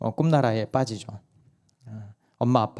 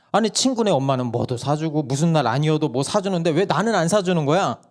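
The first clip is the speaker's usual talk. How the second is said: put-on child complaining; 4 semitones higher, 3 dB louder than usual. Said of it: "다시 말하는 거예요".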